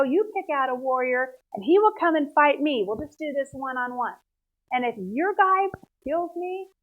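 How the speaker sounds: a hint of a boastful giant calling out; a lightly voiced giant, taunting the army; Goliath's challenge.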